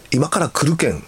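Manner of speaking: a hint of Hakata dialect; Hakata dialect reply. Shown as a demonstration. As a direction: answer with a Hakata lilt. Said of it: "福岡の方は".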